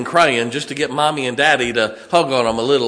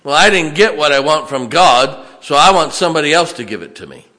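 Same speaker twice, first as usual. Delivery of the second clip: louder complaining voice, fast at the end; whiny pity-seeker; 3 semitones higher, 6 dB louder than usual. Acted. Churchgoer complains God gave too little, loud whine. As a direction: whine like someone feeling cheated.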